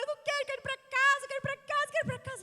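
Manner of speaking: put-on high whiny child voice; whining child. Mother imitating her son begging to go home, whiny. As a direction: whine like a tired boy.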